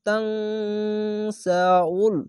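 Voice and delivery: তাং held on a nasal ng before সা উল; hidden nasal n. Shown as a demonstration. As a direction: hum the end of তাং, then সা উল. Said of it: "ইকফা গুন্না". (তাং-এ ইকফা গুন্না করে)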